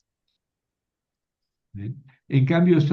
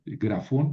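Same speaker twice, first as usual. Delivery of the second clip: "grafón" con acento en FON; acento final. Shown as a demonstration. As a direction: marca la última sílaba de "grafón". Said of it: "el acento está al final". ("grafón" aguda, acentuada al final)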